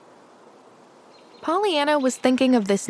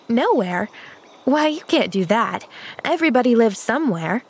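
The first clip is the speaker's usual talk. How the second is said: asserting; 2 semitones higher than usual. Acted. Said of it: "asserted Pollyanna".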